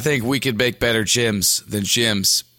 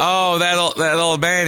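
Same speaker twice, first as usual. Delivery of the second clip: higher, mock-concerned aside; lightly acted sympathy for an old man; pitying onlooker; 5 semitones higher than usual. Onlookers assuming Dad is ill, mock pity.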